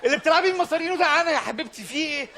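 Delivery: ranting comic. Acted. Kid rants at mother.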